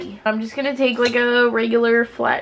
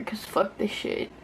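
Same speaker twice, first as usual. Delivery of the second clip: whispering; 8 dB quieter than usual. Real, not acted. Frustrated aside.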